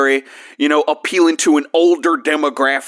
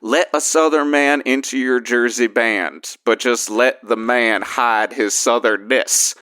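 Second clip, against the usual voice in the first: put-on Southern accent; 4 semitones lower than usual. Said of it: "You got real Southern".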